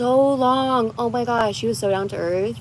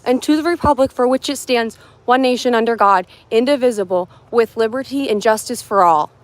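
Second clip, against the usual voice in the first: mock pledge recitation. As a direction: recite it like a proud patriot.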